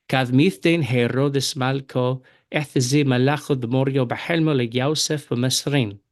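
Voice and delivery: Syriac read with the Western accent, Malko and bahelmo. Shown as a demonstration. Teacher reads the verse to students in Western Syriac accent. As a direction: Western Syriac reading, the o vowels. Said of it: "I'll begin reading with the Western accent".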